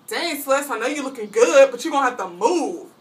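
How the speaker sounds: mildly voiced cocky boy. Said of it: "And Steven was like".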